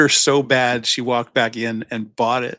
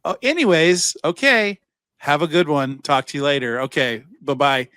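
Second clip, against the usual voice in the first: a hint of a chirpy AI caller; polite phone voice; 2 semitones higher than usual. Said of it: "they just keep talking".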